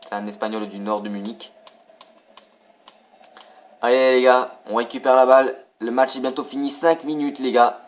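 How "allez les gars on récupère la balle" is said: louder rallying call; rally the team to win the ball back; urging on. Real, not acted. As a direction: coach urging players.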